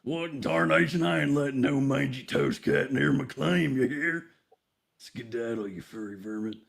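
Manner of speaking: lightly voiced old-timey prospector; a hint of a grizzled gold miner. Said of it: "old-timey prospector".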